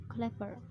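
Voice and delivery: CLEVER stressed on CLEV; CLEV-er, weight up front; first-syllable stress. Shown as a demonstration. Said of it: "stress on first syllable".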